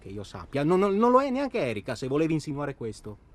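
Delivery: furious shout. Acted. Shouting at Toto that he is not impotent, furious. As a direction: yell the denial. Defending fertility in quarrel.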